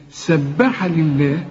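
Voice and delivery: سبح recited very slowly with a doubled ب; doubled consonant. Shown as a demonstration. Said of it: "إنما سبح".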